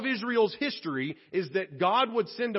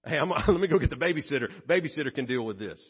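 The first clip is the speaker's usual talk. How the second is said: lower, fast and laughing, a hint of a shirking parent; God imagined calling a babysitter, hurried and laughing; mock God dodging the mess; 4 semitones lower, 3 dB louder, much faster than usual. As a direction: rush it like you're getting out of diaper duty. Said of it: "Not a chance".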